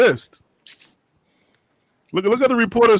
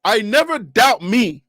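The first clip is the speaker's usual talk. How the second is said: quoting coach; 2 semitones lower, slower than usual. Retold or imitated. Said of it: "you're not putting it on you".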